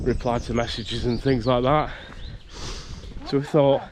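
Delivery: breathless while walking; out of breath. Real, not acted. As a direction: talk a little out of breath. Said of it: "I don't know why I'm out of breath".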